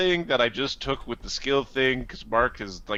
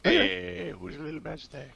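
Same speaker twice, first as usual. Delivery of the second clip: put-on baby talk; 7 semitones higher than usual.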